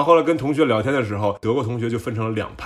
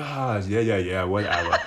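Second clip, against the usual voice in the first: lazy, unimpressed yeahs; dismissive shrug; 3 semitones lower, slower than usual. Retold or imitated. Berliner friend waving off the naked man, dismissive. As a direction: brush it off as nothing special. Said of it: "就一脸不屑".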